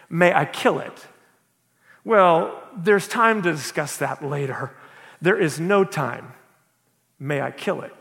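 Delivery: reading a parable aloud to the congregation; measured storytelling read, voices lightly sketched; story reading. A narrator's reading. Pastor reads story aloud.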